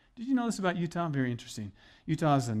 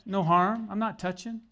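defensive excuse; 5 semitones higher than usual. Retold or imitated. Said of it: "He goes".

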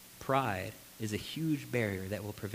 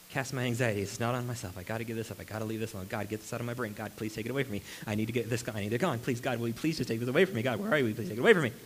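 anxious pleading prayer; faster than usual. Acted. Acted anxious prayer building up.

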